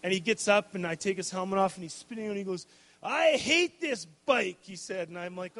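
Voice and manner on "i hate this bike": put-on high, slow whiny child's complaint; the crashed son tells his dad he hates the bike, high and whining; upset kid. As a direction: wail it like a hurt, sulking little boy.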